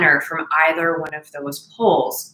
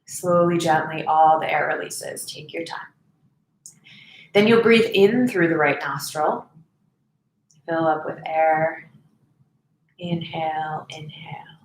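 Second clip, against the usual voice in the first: guided meditation; 2 semitones lower than usual. Real, not acted. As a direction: guide them gently through each breath, leaving space. Leads breathing meditation.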